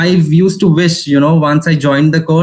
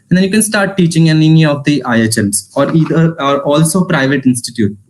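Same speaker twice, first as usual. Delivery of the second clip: out of breath. Real, not acted. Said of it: "I'm running out of breath".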